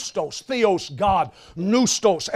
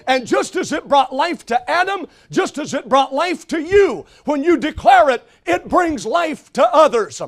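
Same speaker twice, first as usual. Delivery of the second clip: preaching build; 4 semitones higher than usual. Acted.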